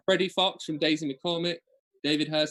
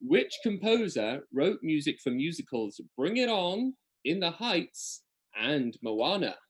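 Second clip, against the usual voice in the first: higher-pitched listing, slowing on the last title; quiz question read-out; 4 semitones higher, slower than usual. Acted.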